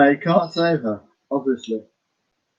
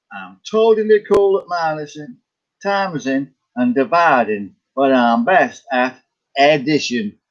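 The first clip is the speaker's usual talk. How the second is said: lightly put-on American accent. Reading out Ed the Duck's words, lightly put-on American accent. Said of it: "said that in an American accent".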